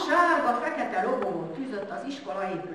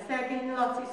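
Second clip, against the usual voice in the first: pitying sigh; 2 semitones higher, 4 dB quieter than usual. A narrator's reading. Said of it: "a kezét tördelte".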